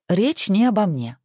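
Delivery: stern reminder. A narrator's reading. Wife sternly corrects her husband, firm and slow. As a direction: set him straight, slowly. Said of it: "строго напомнила Александра".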